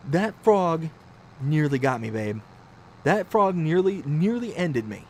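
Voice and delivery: emphatic mock survivor; hammed-up gravity; melodramatic wife. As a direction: punch out the brush with death. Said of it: "I'm making her sound like she's, like, this crazy person".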